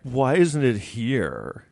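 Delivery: slow, whiny entitled complaint; mock superiority. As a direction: drag it out like a spoiled local. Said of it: "I'm like".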